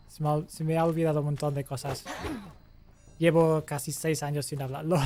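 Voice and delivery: answers in Andalusian Spanish, a bit shy. Shown as a demonstration. Chatting viewer asks caster to speak Spanish, shy Andalusian Spanish reply. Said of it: "Can you speak Spanish again?".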